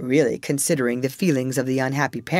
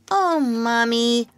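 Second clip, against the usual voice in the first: put-on high, slow, eager child's cry; a little boy calling out to his mother; cried out; 9 semitones higher, slower than usual. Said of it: "cried the first twin".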